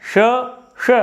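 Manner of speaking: श said like a half ख. Shown as a demonstration. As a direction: breathe श out with a ख-like rasp. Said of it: "इस श का उच्चारण है वो ख की तरह होता है".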